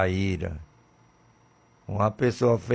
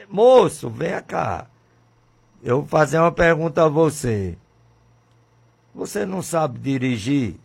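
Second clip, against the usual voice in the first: officer calling out; 5 semitones higher, 3 dB louder than usual. Acted. Officer calling driver over.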